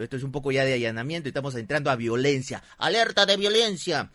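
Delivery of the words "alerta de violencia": mock alert. Mock alarm over own story.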